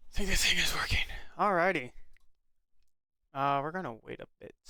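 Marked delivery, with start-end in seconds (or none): 0.1-1.1 whisper. Real, not acted. Checking mic at stream start.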